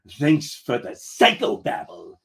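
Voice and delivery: dry mock thanks; sarcastic. Captain brushing off his first mate's analysis, sarcastic. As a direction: thank them with obvious sarcasm. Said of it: "Real sarcastic like".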